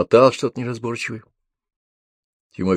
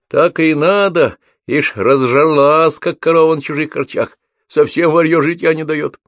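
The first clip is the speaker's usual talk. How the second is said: high loud spiteful crowd shouts; angry jeering; 8 semitones higher, 6 dB louder than usual. A narrator's reading. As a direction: jeer at the thief. Crowd jeers at woman. (злобные выкрики из толпы)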